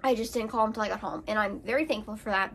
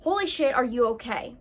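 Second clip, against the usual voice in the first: higher, louder panicked outburst; alarmed; 3 semitones higher, 4 dB louder than usual. Retold or imitated. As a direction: blurt it out in retold shock. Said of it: "right away I'm like".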